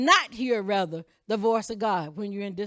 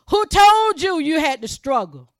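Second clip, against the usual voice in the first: louder and higher, hit told; preacher voicing God's challenge to Adam; forceful challenge; 4 semitones higher, 7 dB louder than usual. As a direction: demand it from the pulpit.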